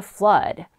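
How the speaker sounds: "Flood" with an "uh" vowel, like "flud"; short "uh" vowel. Shown as a demonstration. Teacher modelling the vowel for students, "Flood" with "uh". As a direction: say "Flood" to rhyme with mud. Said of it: "어 발음으로 소리가 나죠".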